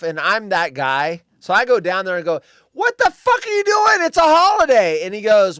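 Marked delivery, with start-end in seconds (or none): 2.7-5.0 shouting at the workers, high and loud; retold angry yell. Man yelling at construction workers, furious. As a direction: yell it like you're furious at the jackhammer crew.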